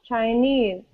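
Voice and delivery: "Chinese" as chi-NESE; second-syllable stress. Shown as a demonstration. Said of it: "So we stress this part".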